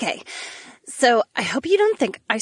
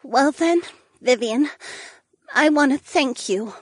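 slightly quivering voice; 3 semitones higher than usual. Acted. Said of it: "in a slightly quivering voice".

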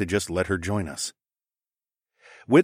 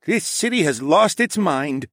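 slow, higher, weary king; a king who has given up on his city; despairing king; 9 semitones higher, 4 dB louder than usual. A narrator's reading. King lamenting to the hero, slow and weary.

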